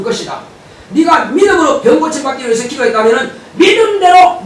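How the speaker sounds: preacher booming God's promise of healing; preaching at full force. Acted. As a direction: shout God's promise to the congregation.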